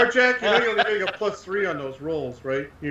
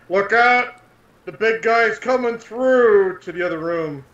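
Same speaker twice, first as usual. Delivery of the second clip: mildly raised, drawn-out call; slightly higher, slower in-character call; called-out warning; 4 semitones higher, slower than usual. Acted. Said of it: "Gesh will call out".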